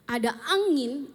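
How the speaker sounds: slow, drawn-out build-up; dramatic build. Acted. Retelling Elijah's wind to the listeners, slow and dramatic. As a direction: stretch out the wind for suspense. Contrasts wind with God's stillness.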